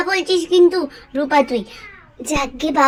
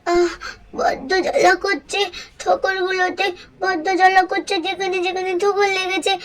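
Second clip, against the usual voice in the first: pained whimper; 5 dB quieter than usual. Acted. Child in pain after pecks.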